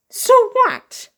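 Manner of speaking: high, loud defiant snap; loud scornful retort; defiant shout. Acted. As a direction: fling it back at him.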